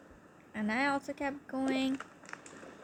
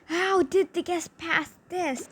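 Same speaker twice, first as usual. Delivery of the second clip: baffled; 6 semitones higher, 5 dB louder than usual. Retold or imitated. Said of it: "He was like".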